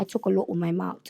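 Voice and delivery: careful imitation of a British accent. Shown as a demonstration. Guest echoing the host, careful British accent. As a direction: mirror the British vowels. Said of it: "Try it, try it".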